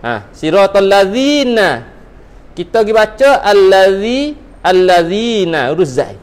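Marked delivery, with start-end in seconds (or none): 0.3-1.8 'siratal lazina' with the dh sound; careful Quranic reading of 'lazina'; correct recitation. Shown as a demonstration. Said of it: "ni berubah makna". 3.4-5.7 'allazi' with z, then 'allazina' drawn out; wrong then right. Shown as a demonstration. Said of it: "ni berubah makna".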